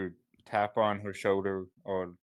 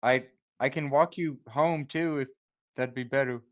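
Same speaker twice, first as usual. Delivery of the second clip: slightly raised voice; 5 semitones higher than usual. Acted. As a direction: raise the voice a little. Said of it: "raise his voice a little bit".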